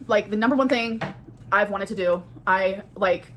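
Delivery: normal talking voice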